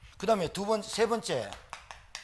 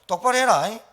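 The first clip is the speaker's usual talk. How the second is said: louder mock telling-off of a player; retold scolding; 3 semitones higher, 7 dB louder than usual. Pastor retells scolding his athletes, loud mock reprimand. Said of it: "야단 쳤어".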